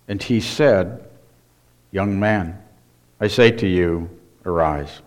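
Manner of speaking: measured Bible reading; scripture reading. Acted. Pastor reading Luke to the congregation, solemn. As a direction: read the Gospel with reverent weight. Reads Luke seven aloud.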